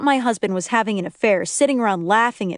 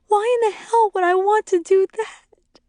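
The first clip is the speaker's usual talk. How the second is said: tearful indignation; 12 semitones higher than usual. A narrator's reading. Shuddering wife just stopped crying.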